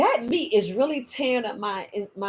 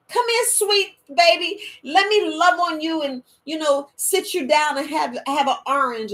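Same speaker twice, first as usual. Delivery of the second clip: sweet grandma; 5 semitones higher than usual. Retold or imitated. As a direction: coax the baby gently. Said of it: "I said".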